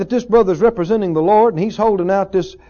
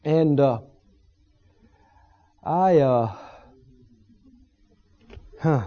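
lower, softer, trailing off weakly; mildly acted weak believer, quieter and lower; weak faltering; 5 semitones lower, 6 dB quieter, slower than usual. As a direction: sound too weak to finish the thought. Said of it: "They're so weak".

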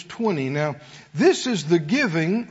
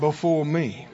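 leading group recitation; 4 semitones lower than usual. Shown as a demonstration. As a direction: lower closing phrase to be echoed. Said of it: "Everybody said out loud".

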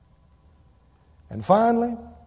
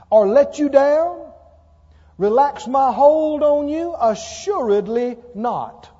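slow, loud, rising toward let you down; building preached promise; 2 semitones higher, 5 dB louder, slower than usual. Acted. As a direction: let the promise swell word by word. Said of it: "I want to read it again".

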